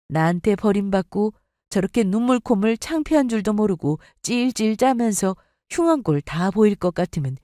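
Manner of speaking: ordinary talk, nothing marked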